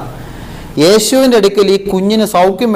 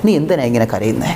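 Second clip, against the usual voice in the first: gentle Jesus voice; 5 dB quieter than usual. Acted. Preacher voices Jesus consoling suffering believers, soft and tender. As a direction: speak it like Jesus gently asking his child why they are crying. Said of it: "ഈശോ നമ്മളോട് മൗനമായി പറയുന്നുണ്ട്".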